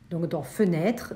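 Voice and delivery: fenêtre said slowly as fe-nê-tre; three syllables. Shown as a demonstration. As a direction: sound out the silent e in fenêtre. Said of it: "on va essayer de prononcer fenêtre".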